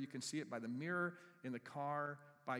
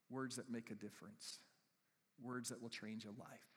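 closing prayer. Acted. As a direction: pray gently over the people.

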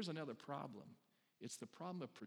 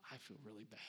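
hushed, sympathetic murmur; merciful sympathy; 5 semitones lower, 10 dB quieter than usual. Acted. Mercy-gifted person sees the dropped tray, hushed sympathy. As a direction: imitate a soft-hearted sympathiser, much softer. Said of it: "person with the gift of mercy goes".

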